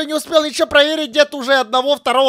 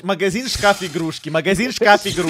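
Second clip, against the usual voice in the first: mocking choppy speech; 4 semitones lower, 5 dB quieter than usual. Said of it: "ты так идеально разговариваешь".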